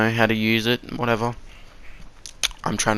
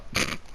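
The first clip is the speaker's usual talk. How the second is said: short laugh; 9 dB quieter than usual. Real, not acted. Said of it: "I laugh at him".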